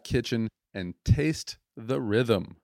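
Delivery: slow "taste the rhythm" with a hint of a Jamaican lilt; Jamaican accent attempt. Shown as a demonstration. Host trying the slogan with a Jamaican accent. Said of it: "sounds so much cooler when you say it with an accent".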